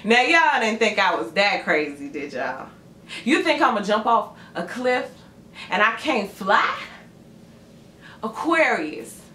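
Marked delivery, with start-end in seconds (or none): 0.0-6.8 cocky taunt. Pretend. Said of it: "And you like".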